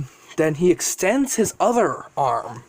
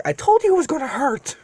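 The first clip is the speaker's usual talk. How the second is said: retorting dragon; 9 semitones higher than usual. Acted.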